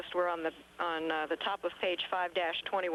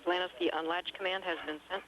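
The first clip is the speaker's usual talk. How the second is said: crackly radio transmission; spoken over a space radio link; sci fi communicator; 11 semitones higher, faster than usual. Real, not acted. Capcom calling shuttle by radio.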